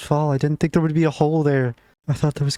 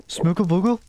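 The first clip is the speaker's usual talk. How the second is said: high, searching call for a lost pet; calling out for the missing pet; calling out a name; 6 semitones higher than usual. Real, not acted. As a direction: call the pet's name into the empty cave.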